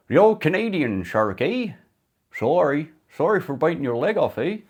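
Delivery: put-on hammy Canadian accent, sorry and eh stretched; Canadian impression. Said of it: "that Canadian impression".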